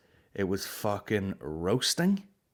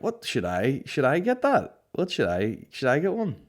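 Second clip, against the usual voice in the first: mock anxious dithering; 5 semitones higher than usual. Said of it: "you're like".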